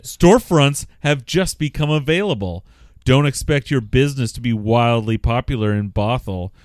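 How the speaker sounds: measured, emphatic read-out; reading a letter aloud. A narrator's reading. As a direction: read it out to the room, stressing key words.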